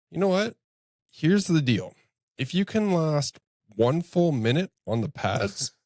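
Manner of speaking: put-on a fired-up coach setting a drunk challenger's terms; retold challenge. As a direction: dare him with a sudden lift.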